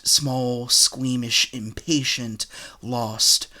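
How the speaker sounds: measured, declaimed poetry recital; poem reading. Acted. Writer reads an old poem of theirs to viewers, poem reading. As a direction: recite it line by line with weight on each listed word.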